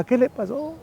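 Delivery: high, alarmed imitation of a worried mom; mother hearing bad news about her son, high worried question. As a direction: ask it high and anxious, as his frightened mother. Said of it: "Mi mamá preocupada".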